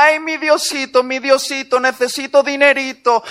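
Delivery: a light parody of begging God for money; wheedling mock prayer. Preacher mimics woman asking God for money, wheedling. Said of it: "le decía".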